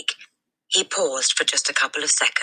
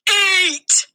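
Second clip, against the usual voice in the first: a much higher, much louder single bark; furious shout; 6 dB louder than usual. A narrator's reading. Headmistress ordering the hesitating boy, furious shout. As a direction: blast the word at him. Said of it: "she shouted".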